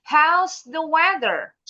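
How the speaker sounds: "How's the weather" slow, falling at the end; falling intonation model. Shown as a demonstration. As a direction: model "weather" dropping, for repeating. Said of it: "Repeat after me". (intonasi turun di akhir "weather", pelan)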